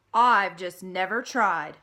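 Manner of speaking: loud, bragging little pig; boasting. Acted. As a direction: show off proudly.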